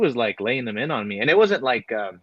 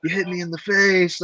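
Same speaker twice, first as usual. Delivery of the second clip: whiny complaint; 7 semitones higher than usual. Retold or imitated. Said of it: "he's like".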